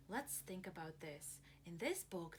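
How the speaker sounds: hushed storytime whisper; soft whisper. Acted. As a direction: lean in and whisper it. Teacher whispering to children.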